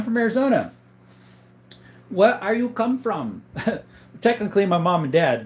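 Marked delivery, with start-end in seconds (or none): 2.1-3.4 slow, higher mock voice reading the question; put-on voice. Rereading a viewer's question to the chat, slow mock voice. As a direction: drawl it out like a goofy caller.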